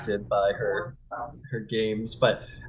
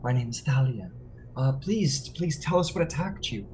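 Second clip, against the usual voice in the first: raised, gracious introduction; priestess Thalia; 4 semitones higher than usual. Acted. Thalia introducing herself to the freed man. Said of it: "He goes".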